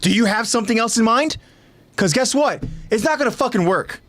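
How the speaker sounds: high, mock-inquiring put-down; condescending. Eren talking down to Hanji about her plans, condescending. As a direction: ask as if the answer is already worthless. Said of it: "condescending, like".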